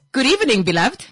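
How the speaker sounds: high, loud, polished radio greeting; work voice. Real, not acted. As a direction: greet like a smooth show host. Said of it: "this is my work voice".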